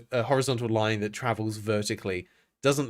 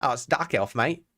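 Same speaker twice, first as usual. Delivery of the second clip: put-on light Aussie accent; faster than usual. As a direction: toss it off like a casual Aussie bloke. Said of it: "Blame it on the Aussie accent".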